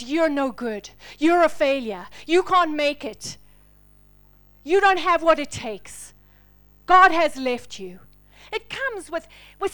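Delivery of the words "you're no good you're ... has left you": loud, harsh accusations; accusing inner voice. Acted. The storm's voice accusing the listener, loud and harsh. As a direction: hurl the lies like the storm. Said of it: "a narrative that says".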